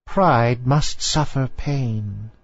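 put-on very slow, stately old lady; old dowager voice. A narrator's reading. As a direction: lay down the law like a grand matriarch. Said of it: "replied the old lady".

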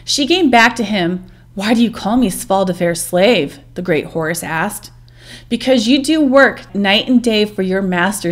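storyteller reading a myth aloud; story narration. A narrator's reading. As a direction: tell the legend steadily, like a storybook.

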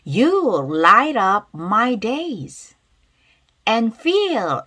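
loud, slow and drawn-out; loud pronunciation demo. Shown as a demonstration. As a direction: model each phrase loudly for learners to repeat. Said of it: "큰 소리 따라볼게". (큰 소리로 천천히 따라 읽기 시범)

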